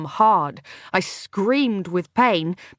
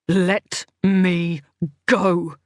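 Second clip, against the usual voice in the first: growled, not quite human; animal growl; 3 dB louder, much slower than usual. Acted. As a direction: snarl it like a cornered animal. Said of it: "like the growl of an animal".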